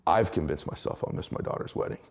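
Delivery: soft, near-breathless voice thick with feeling; choked up. Real, not acted. Father telling the host about missing his daughter's wedding, real choked-up softness. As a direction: let the emotion catch in your throat. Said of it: "I get emotional".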